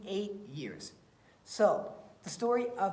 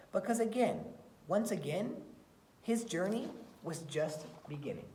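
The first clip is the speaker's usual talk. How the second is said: put-on expressive read-aloud for children; story reading. Teacher reading a picture book to her class, expressive storytelling.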